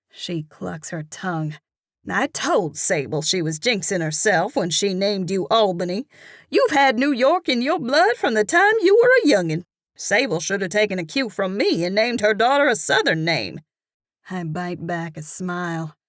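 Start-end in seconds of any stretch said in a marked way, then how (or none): 2.1-13.6 gossipy southern cashier. Acted. Cashier ribbing the narrator about her name, gossipy. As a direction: scold fondly, full of gossip.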